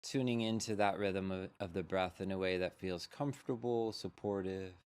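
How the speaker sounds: unhurried meditation guide with long pauses; measured, spacious mindfulness-teacher delivery; guided meditation. Real, not acted. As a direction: lead them gently into settling, leaving space between phrases.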